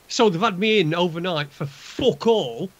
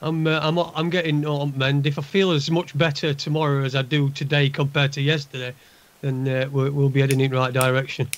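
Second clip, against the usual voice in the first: gruff voice; 2 semitones lower than usual. Real, not acted. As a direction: sound rough after hospital. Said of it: "You sound a bit gruff".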